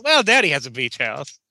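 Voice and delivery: put-on pouty rich girl bragging about Daddy; spoiled rich girl. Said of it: "this is the way you said it".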